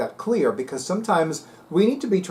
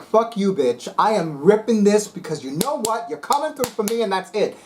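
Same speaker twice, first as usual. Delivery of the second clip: sassy threat; 5 semitones higher than usual. Retold or imitated. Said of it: "I'm like".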